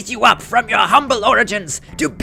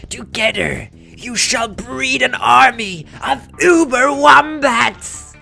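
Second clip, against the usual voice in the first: hammy stage actor. Acted. Villain proclaims his plan.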